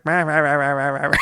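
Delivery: a clacking, chanted puppet cackle; mock dummy laugh. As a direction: mimic an evil dummy's rah-rah laugh. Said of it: "clacking and laughing like".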